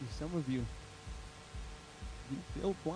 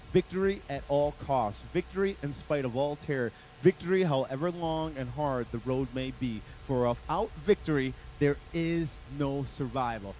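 Winston Churchill; 4 dB louder than usual. Retold or imitated. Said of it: "he says it like this".

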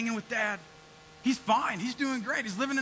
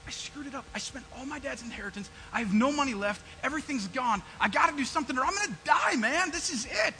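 pleading; 5 semitones higher than usual. Retold or imitated. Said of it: "I pleaded him".

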